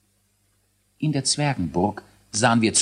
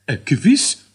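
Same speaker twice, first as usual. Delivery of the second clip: high, squeaky scientist dwarf counting down; a fussy little boffin announcing launch; learned dwarf voice; 6 semitones higher, 7 dB louder than usual. A narrator's reading. Dwarf scientist starts the rocket countdown, high and squeaky. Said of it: "erwiderte Elisius".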